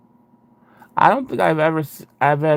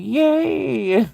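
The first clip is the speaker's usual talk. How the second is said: much higher put-on "Yay"; mock yay; 11 semitones higher than usual. Imitating the viewer's cheer to chat, high and put-on. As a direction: squeak a deadpan little cheer. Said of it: "She was like".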